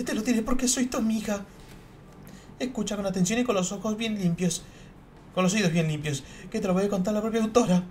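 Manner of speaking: put-on high, loud, proud girl's voice; haughty schoolgirl. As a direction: play a vain writer showing off to her friend. Voices haughty girl characters. (escritora engreída, voz aguda y fuerte)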